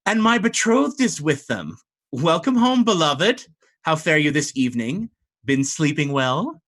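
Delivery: high, lilting mermaid fiancée greeting; mermaid bride. Acted. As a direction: coo at him as his eerie mermaid bride.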